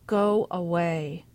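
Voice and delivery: slow, choked words through tears. Acted. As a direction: force it out while crying. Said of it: "Sissy choked out".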